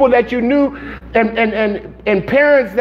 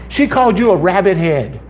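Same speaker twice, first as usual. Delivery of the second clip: laughing; 3 semitones lower than usual. Retold or imitated. Retelling the joke, laughing.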